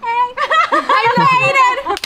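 slow, high laughing relief; laughing proud relief; relieved laugh. Real, not acted. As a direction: laugh out the triumph. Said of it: "I spoke in English".

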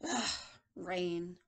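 a hint of low, grumbling old man; unhappy old man. Teacher reads old man seeing rain, lightly glum. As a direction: lightly act disgusted by the weather. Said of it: "this old man doesn't look happy".

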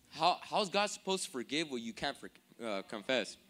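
tripping over "forgive" and "confess"; stumbled line. Real, not acted. Preacher fumbles his question to the congregation, stumbling delivery. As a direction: falter and hesitate before landing on "confess". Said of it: "My bad. Let me say that again".

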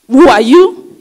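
preacher booming a question at the congregation; loud call. Real, not acted. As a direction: throw the question out to the hall.

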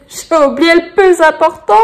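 high, loud, amused outburst; laughing realisation. Real, not acted. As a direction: laugh as you catch your own slip. Laughs at her own forgetting.

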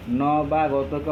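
drawn-out, segmented নবাগতকে, as ন-বা-গত-কে; syllable split. Shown as a demonstration. Teacher breaks নবাগত for students, syllable split. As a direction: say নবাগতকে slowly, part by part. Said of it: "এখানে ভাঙার".

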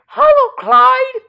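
high, loud call of "Clyde"; calling a pet. Real, not acted. Owner calls cat Clyde, high loud call. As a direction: shout the name up high to summon him.

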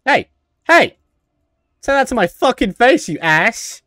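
mock outraged yell. Yelling back at game character.

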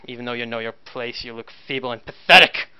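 cold commissar giving orders. Acted. GM voices the commissar.

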